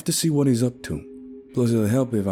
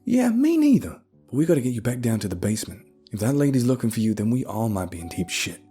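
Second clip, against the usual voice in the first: higher, strained wheeze; urgent words on short breath; wheezing; 6 semitones higher, 3 dB louder than usual. A narrator's reading. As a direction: wheeze it out, badly winded. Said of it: "I managed to wheeze out".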